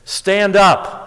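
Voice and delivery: high, measured call to a friend; retold call across the water. Friend's punchline answer from shore.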